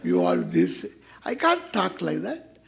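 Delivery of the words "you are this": low, glum, long-faced delivery; mock-gloomy sermon voice. Shown as a demonstration. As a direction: say it with a long face, no joy. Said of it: "pull a long face and tell you".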